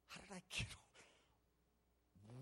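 slow, very soft self-questioning; drawn-out hushed disbelief; bewildered hush. Retold or imitated. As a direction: puzzle it out under your breath. Bewildered on waking, retold.

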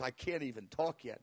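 low, soft, imitating someone shaken; hushed and overwhelmed; trembling. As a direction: speak low as if too overcome to talk. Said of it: "he was trembling".

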